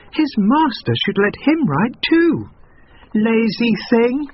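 put-on high, slow, tutting girl; scolding girl. A narrator's reading. Girl at the gate scolding the miller, slow scorn. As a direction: drag out the scorn. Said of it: "one of the girls said".

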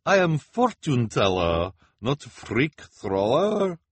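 high, loud, flustered objection; anxious fortune teller, stretching the last words; nervous protest. Acted. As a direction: protest your way out of it. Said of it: "protested, looking at the children nervously".

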